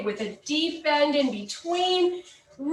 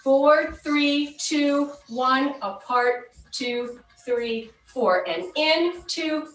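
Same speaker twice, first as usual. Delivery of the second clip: aerobics instructor; slower than usual. Acted. Counts the cool-down moves.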